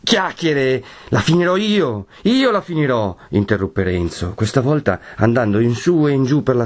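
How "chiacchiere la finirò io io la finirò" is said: raised, forceful angry outburst; grim determination. A narrator's reading. Renzo interrupts the others, grimly determined. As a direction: cut in with heated resolve. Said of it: "voce e con un viso da non lasciar dubbio".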